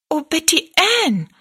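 high, dismayed exclamation; stricken, pitched well up then falling; dismayed cry. A narrator's reading. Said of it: "rief Rosalie bestürzt".

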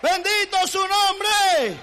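high, loud, slow exclamation of praise; fervent praise. Real, not acted. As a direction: lift it up like a preacher. (alabanza ferviente, alta y lenta)

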